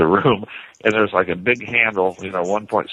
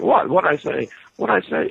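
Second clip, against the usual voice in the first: high, puzzled stoned questions; mock baffled stoner; 10 semitones higher than usual. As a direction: ask it like you lost the thread. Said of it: "I'm going like".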